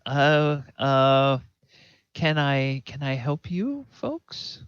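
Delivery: a frightened woman forcing politeness; nervous. Acted. Farm woman nervously offering help to the armed strangers. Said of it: "she looks a little frightened".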